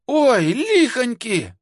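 high, drawn-out wail of alarm; long, high hungover howl; hungover yell. A narrator's reading. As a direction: cry out in boozy horror. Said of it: "заорала хриплым с перепоя голосом".

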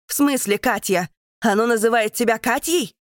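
alarmed demand. Acted. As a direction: grab her and demand answers. Keita horrified, questioning Deka.

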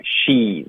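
SHE'S with a clear, long "ee"; E comes through. Shown as a demonstration. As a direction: let the "ee" in she's come out fully. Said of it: "还是要出来". (she's 里的 i 音读出来)

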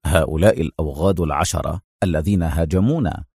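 low, composed answer; unruffled, low-pitched reply; calm. A narrator's reading. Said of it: "أجابه أدهم في هدوء".

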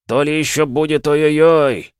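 high, loud gleeful taunt. Acted. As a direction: crow it out with glee. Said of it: "весело ответил Голубев".

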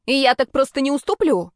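high, loud stubborn squeal. A narrator's reading. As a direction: shriek your refusal to yield. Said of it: "визжала".

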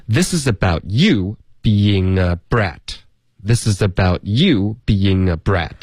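slow model reading, YOU stressed, BEING A linked as bee-ying-nga; linked demo sentence. Shown as a demonstration. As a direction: link "this is about", lean on "you". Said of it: "跟a要连读". (慢速示范整句，重读 you，being a 连读)

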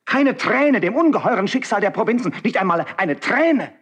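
rising high, pained accusation; impassioned reproach. Acted. Marquis reproaches Karl for his dead heart, voice climbing high. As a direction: lash him with grief and scorn.

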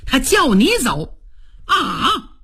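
slight smile. Acted. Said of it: "微微一乐".

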